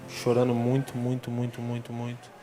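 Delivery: ordinary delivery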